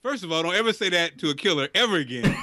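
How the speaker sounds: put-on Russian killer's accent. Russian killer warning Olivia, joking Russian accent. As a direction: scold in a mock Russian accent. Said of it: "same accent for all Russians in this episode".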